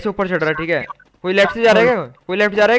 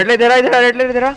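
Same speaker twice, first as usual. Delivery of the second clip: loud, raised call to a teammate; raised in-game shout; urgent callout; 3 semitones higher, 4 dB louder than usual. Real, not acted. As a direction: call them over urgently. Urgently calling teammate over in game.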